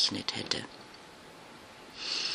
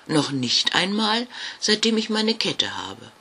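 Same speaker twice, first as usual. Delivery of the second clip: put-on higher, earnest little ghost girl; quite serious; 6 semitones higher than usual. Jasmina confesses nobody fears her, earnest. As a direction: admit it sincerely. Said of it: "sagte Jasmina ganz ernst".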